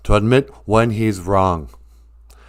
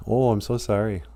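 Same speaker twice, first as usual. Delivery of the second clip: passive-aggressive sorry; 3 semitones lower, 9 dB quieter than usual. Retold or imitated. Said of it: "passive-aggressive thing".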